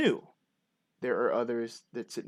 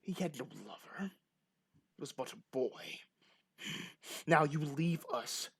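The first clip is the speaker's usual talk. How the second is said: grieving stern farmer; 6 dB quieter than usual. Acted. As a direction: slowly order them away, holding back. Game master plays grieving farmer.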